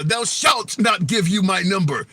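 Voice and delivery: hammed-up Bible-style pronouncement; mock biblical speech. Host showing how Bible talk fails at flirting, mock biblical speech. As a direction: play at scripture talk for a laugh. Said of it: "talk to folks like what's in the Bible".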